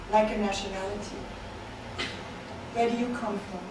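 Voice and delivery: measured, deliberate poem delivery with pauses between phrases; spoken-word recital in even, spaced lines; poetry reading. Acted. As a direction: read it as a poem to a listening room. Reads own poems to audience.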